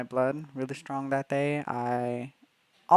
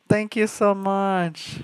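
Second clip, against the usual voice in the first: slow, higher thanks through a laugh; 6 semitones higher, 5 dB louder, much slower than usual. Real, not acted. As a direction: gush your thanks while laughing.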